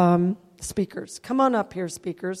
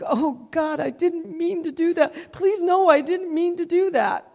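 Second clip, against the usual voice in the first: higher-pitched, remorseful plea to God; distressed pleading; 4 semitones higher than usual. Retold or imitated. Speaker pleading with God after disappointing him, distressed. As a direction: plead as if desperately apologizing.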